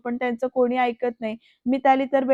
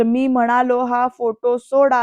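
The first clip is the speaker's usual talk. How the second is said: louder, slow retold demand; raised voice; 5 dB louder than usual. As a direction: raise the voice, acting out a firm order. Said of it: "असं आवाज चढवून बोलतो".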